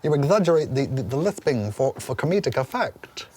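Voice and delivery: lisping Chris Eubank voice; exaggerated lisp, clipped and proper; lightly imitated Chris Eubank lisp; Chris Eubank impression. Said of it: "He said".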